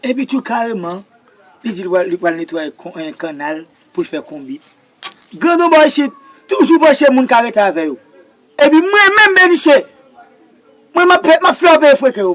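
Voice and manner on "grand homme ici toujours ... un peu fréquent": mock pompous Frenchman. Mock French-speaking big man.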